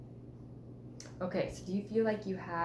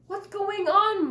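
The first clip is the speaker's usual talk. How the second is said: laughing; 14 semitones higher, 9 dB louder, slower than usual. Acted. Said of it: "my brothers laughed".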